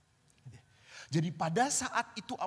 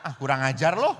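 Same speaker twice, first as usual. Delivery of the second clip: laughing curse; 4 semitones lower, 9 dB louder than usual. Retold or imitated. Teasing friend, laughing reply.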